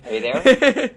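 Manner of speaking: high, loud, half-laughing call down the line; laughing call into a dead line. Real, not acted. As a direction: call out to check they're still on the line. Connection dropped, calling out.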